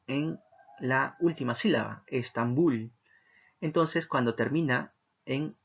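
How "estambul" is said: Estambul with the weight landing on bul; stress on the final syllable. Shown as a demonstration. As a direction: lean into the last syllable, Estambul. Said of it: "bul tiene la mayor intensidad". (acento marcado en la última sílaba, Estambul)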